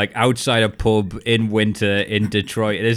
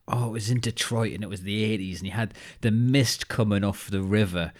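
imitating the producer; 5 dB quieter than usual. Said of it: "he goes".

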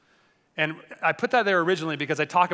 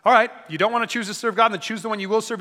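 lightly sarcastic, a touch higher; sarcastic Joshua; 4 semitones higher than usual. Retold or imitated. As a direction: tease them with mild sarcasm. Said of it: "He very, very sarcastically says".

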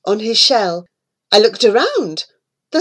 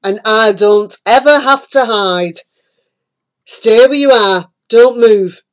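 magic toad crying out; 2 semitones lower, 6 dB louder than usual. A narrator's reading. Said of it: "he cried".

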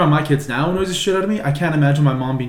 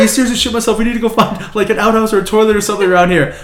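high urgent mock plea; pitched-up rushed panic; imitating aunt; 7 semitones higher, 4 dB louder, faster than usual. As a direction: hurry through it like she's desperate.

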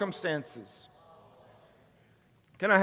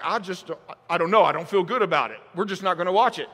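mock unsure parent; 7 semitones lower, much faster than usual. Parent's weak answer.

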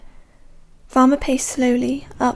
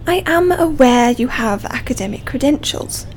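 contemptuous stress on credentials; 4 dB louder than usual. Acted. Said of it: "making credentials sound like a fistful of dog shit".

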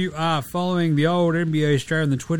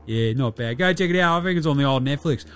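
higher-pitched brash Aussie baller, crude and cocky; old mate Dilly; 3 semitones higher than usual. Acted. Dilly the NBA player rants to listeners about the Redeem Team doco, higher and brash. Host plays character Dilly.

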